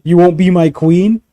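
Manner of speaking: high, loud petulant villain; mock villain tantrum. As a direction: throw a bratty villain tantrum. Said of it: "Literally was like".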